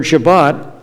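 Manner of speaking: Shabbat in the Sephardic way, stress on the final syllable; Sephardic pronunciation. Shown as a demonstration. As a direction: Shabbat said carefully, Sephardic style. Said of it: "how you say the Hebrew word in the Sephardic Jewish accent".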